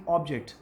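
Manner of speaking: "ऑब्जेक्ट" stressed on its first syllable, falling away; noun stress. Shown as a demonstration. Teacher giving an example word, "ऑब्जेक्ट" with first-syllable stress. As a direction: start "ऑब्जेक्ट" strong on ऑब, drop on जेक्ट. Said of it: "stress based है ये".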